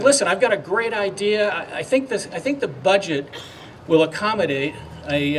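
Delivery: excited governor. Retold or imitated. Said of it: "as you hear his excitability".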